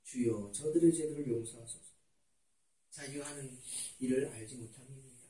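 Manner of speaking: low, hushed prayer; Jesus praying forgiveness. Retold or imitated. Jesus asks pardon for those crucifying him, hushed prayer. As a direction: pray softly and low, with pauses. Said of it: "예수님은 뭐라 그랬어요".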